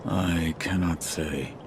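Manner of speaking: tag withheld. Acted. Guarded shinobi refuses to answer.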